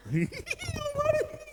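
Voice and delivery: high squealed mock laugh; smiling while angry. Shown as a demonstration. Preacher showing anger with a smile, high forced laugh. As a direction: squeal through a forced grin. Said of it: "senyum tapi sambil marah".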